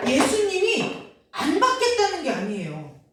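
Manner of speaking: ordinary talk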